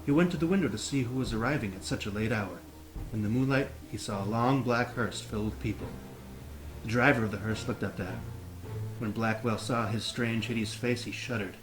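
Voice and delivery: reading while holding a plank; strained, braced from planking. Real, not acted. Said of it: "let's hold that plank".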